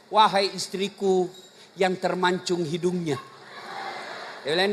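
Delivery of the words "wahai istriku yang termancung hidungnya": tender endearment. Shown as a demonstration. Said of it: "panggilan kasih sayang".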